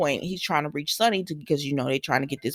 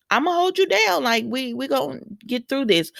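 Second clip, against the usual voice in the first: much higher voiced T J, reassuring; T J comforting; 7 semitones higher than usual. T J comforts crying Willow, high mock voice. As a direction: play T J promising to stand by her. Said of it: "T J is just like".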